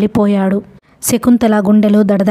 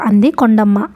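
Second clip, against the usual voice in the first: ordinary delivery, nothing marked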